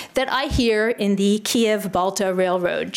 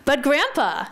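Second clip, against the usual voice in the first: higher-pitched protest to Grandpa; mock disbelief, pitched up; incredulous grandson; 5 semitones higher than usual. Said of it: "The grandson is incredulous".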